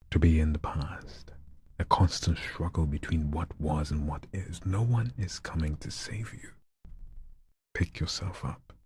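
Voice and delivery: building then stopping. Shown as a demonstration. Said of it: "like it's building up something and then suddenly stops".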